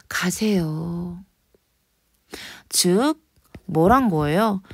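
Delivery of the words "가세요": soft slow whispered farewell; whispered goodbye. Acted. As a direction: breathe it out slowly. Teacher acting the poem's farewell.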